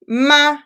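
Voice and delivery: ma said with a rising Mandarin tone. Shown as a demonstration. Teacher demonstrates the rising tone on ma. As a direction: glide "ma" upward like a question. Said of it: "if you go up, ma".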